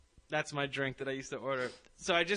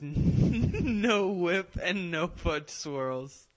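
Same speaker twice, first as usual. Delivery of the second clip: mock fussy order; 5 dB louder, much slower than usual. Mocking his own fussy order.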